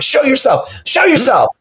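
daring the ghost to appear; mock ghost challenge. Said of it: "I'm like".

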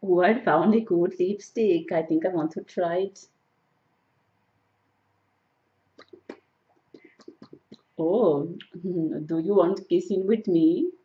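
put-on Indian accent. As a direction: haggle like a shopper in an imitated Indian accent. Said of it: "doing an Indian accent".

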